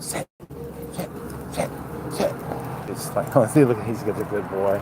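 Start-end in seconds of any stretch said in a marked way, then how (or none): 0.0-2.3 "sit" said softly over and over; hushed, staccato string of "sit"; repeated command. Shown as a demonstration. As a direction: show nagging a dog with repeated short sits. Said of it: "Notice I'm not going like".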